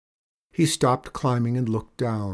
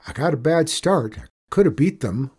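higher, lightly voiced boy; plucky boy; 5 semitones higher, 4 dB louder than usual. Boy excusing his lost race, plucky. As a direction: brush off the loss.

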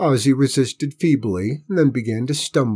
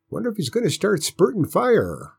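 grandpa wondering; 10 semitones higher than usual. A narrator's reading. Grandpa voiced, raised pitch.

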